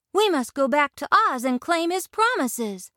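Dorothy voice. A narrator's reading. Dorothy urges friends.

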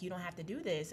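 soft, hushed inner voice; small voice. Retold or imitated. Small voice warning her before sex, very softly. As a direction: say it small and quiet. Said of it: "it was so small".

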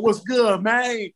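Memphis homie. Retold or imitated. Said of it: "that nigga get on the phone".

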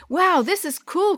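high, drawn-out wow; impressed excitement. Acted. Chris bouncing in the van on rough road, excited. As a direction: marvel in a high voice, taking it slowly. Boy thrilled by bumpy road.

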